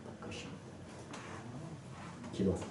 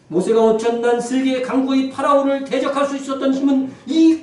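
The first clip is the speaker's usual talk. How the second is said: loud, raised sermon delivery; full-force preaching; 10 semitones higher, 10 dB louder than usual. Real, not acted. Pastor urging the congregation to fight by faith, full-force preaching. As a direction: preach it out hard, pitch held high.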